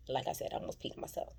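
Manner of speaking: quick hushed whisper; whispered gossip; whispered aside. Real, not acted. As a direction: lean in and whisper. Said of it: "hushed aside".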